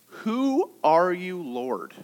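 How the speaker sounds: mustering a question. Retold or imitated. Saul asks the bright light who it is, slowly mustered question. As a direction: draw out the question, then let it sink. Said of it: "he musters up this question".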